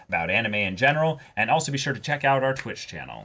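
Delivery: brisk sign-off read; host outro. Acted. Thanking viewers at the end, brisk host outro. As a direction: wrap up the show for viewers.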